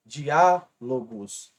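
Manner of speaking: Diálogos muito devagar, Diá forte; stressed syllable shown. Shown as a demonstration. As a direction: arraste Diálogos pesando o Diá. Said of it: "a antepenúltima é a mais forte". (Diálogos lento, antepenúltima marcada)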